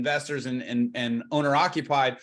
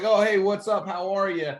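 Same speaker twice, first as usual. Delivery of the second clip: casual reply; 4 semitones higher, 3 dB louder than usual. Retold or imitated. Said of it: "they're like".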